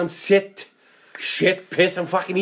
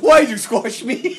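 higher, louder, drawn-out spider voice; mock-pleading little creature; plaintive spider; 5 semitones higher, 3 dB louder than usual. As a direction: wail it slowly as a wronged spider. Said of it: "You'd have a spider going".

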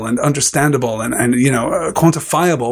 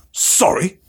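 Hagrid's understated bark, slightly higher; mock bark; 4 semitones higher than usual. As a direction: bark the word Sorry back, mildly. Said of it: "barked Hagrid".

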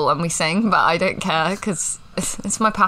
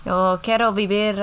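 put-on Spanish accent. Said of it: "Spanish accent for the pod".

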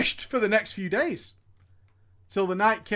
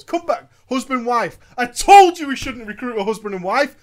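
loud exasperated rant; angry rant; 7 dB louder than usual. Acted. Guild leader complaining to raid, loud and exasperated. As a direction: vent like a betrayed guild leader.

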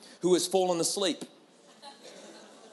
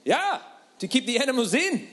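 driver's flat repeat; 6 semitones higher than usual. Retold or imitated. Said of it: "I said".

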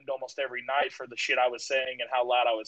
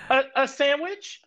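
retold nervous reply; 12 semitones higher, 5 dB louder than usual. Voices a startled kid caught downstairs.

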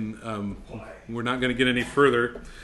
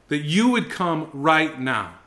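slow fervent plea; slower than usual. Shown as a demonstration.

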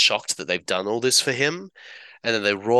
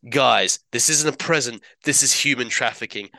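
Peter explaining; 3 semitones higher than usual. Retold or imitated. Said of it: "he's trying to be like".

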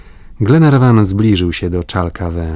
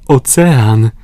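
higher, louder exclamation; excited cry; 5 semitones higher, 5 dB louder than usual. A narrator's reading. Paganel cries out on seeing the ocean, excited. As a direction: announce the sea with joy. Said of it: "zawołał Paganel".

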